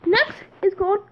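whispered lead-in; whispering. Real, not acted. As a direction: whisper the intro.

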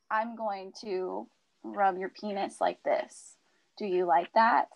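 slow, low sample of seductive talk; mild dirty talk. Shown as a demonstration. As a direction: lightly demonstrate bedroom talk, taking your time. Demonstrates dirty talk structure.

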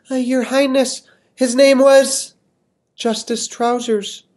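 high, slow proud lady voice; beaming eager woman. Acted. Missus Molasses proudly answering the king, high and eager. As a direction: answer sure of a prize.

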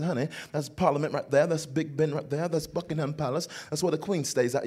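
wife's London accent, lightly imitated; mimicked British accent. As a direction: play a London tour guide with a British accent. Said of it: "she talked with this accent just like this".

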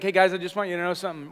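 quick, matter-of-fact, no cheer; not happy. Acted. Paul confronting a divided church, not happy. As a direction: deliver it as a no-nonsense correction. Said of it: "he wasn't, like, happy, happy".

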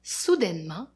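slow, drawn-out spooky build; suspense narration. A narrator's reading. Storyteller to children, slow and spooky. Spooky reading of door opening.

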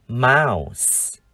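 "mouse" drawn out, ending in voiceless s; model pronunciation. Shown as a demonstration. Teacher shows how to read mouse, "mouse" with long vowel and final s. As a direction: say "mouse" slowly as one syllable with a hissed ending. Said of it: "chúng ta đọc là".

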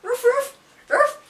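high, loud "ruff ruff"; dog bark. Pretend. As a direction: bark it out like an excited little dog. Imitates a barking dog as joke.

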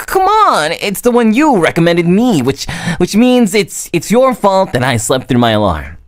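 high, indignant teasing protest; playful blaming. Acted. Girl blaming her friend for the novel, high mock indignation. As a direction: pin the blame on them, mock outraged.

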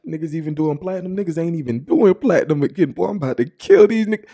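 quoting a rapper skit. Retold or imitated. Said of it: "where he's like".

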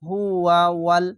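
হুয়া ওয়াল linked slowly onto the lam; slow linked recitation; joined recitation. Shown as a demonstration. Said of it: "এই লামের সঙ্গে মিলবে".

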